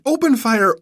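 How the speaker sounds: first shout of the order; yelled order. Acted. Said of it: "he yelled to his aide".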